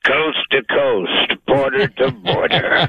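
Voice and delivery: slow booming promo read; drawn-out radio announcer. Shown as a demonstration. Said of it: "Sir, how are you?".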